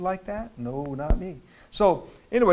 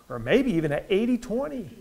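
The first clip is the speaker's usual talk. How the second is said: raised hopeful voice; 4 semitones higher than usual. Shown as a demonstration. Preacher asking someone their odds of heaven, raised hopeful voice. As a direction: lift it into a hopeful question. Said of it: "I always raise my voice like that".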